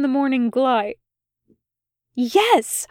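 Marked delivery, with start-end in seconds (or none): 2.1-2.9 higher, sharp near-hiss. Acted. Angry angel answering the demon, sharp near hiss. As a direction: spit the word out almost hissing. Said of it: "in a voice not far from a hiss".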